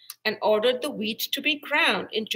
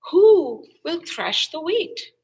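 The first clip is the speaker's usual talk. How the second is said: higher, louder hopeful call; 7 semitones higher, 7 dB louder than usual. A narrator's reading. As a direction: call out hoping for help. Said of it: "she called out to the animals, hopefully".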